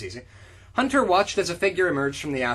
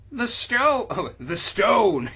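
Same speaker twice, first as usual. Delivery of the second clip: mock panic; 7 semitones higher, 4 dB louder, much slower than usual. Acting the hero's panic.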